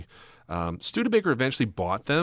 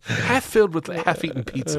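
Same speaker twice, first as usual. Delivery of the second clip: nature documentary; 8 semitones higher, 5 dB louder than usual. Pretend. Continuing mock documentary.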